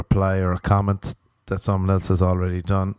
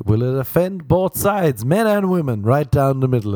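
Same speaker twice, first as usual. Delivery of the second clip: excited; 6 semitones higher, 3 dB louder than usual. Pretend. Excited mock wondering.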